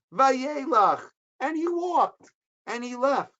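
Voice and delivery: building emphasis. Acted. Teacher stresses Esav was fine, rising excitement. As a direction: build each phrase up the scale.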